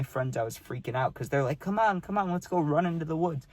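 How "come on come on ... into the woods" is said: higher-pitched mock excited coaxing; imitated eager urging. Imitating friends coaxing him into the woods, eager and high. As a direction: egg a friend on in a raised pitch.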